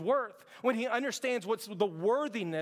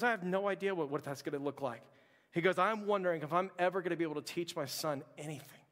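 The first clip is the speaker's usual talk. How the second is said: lowered, hushed retelling of a film scene; hushed storytelling; 5 semitones lower than usual. Acted. Preacher retelling a nativity film scene to his church, hushed.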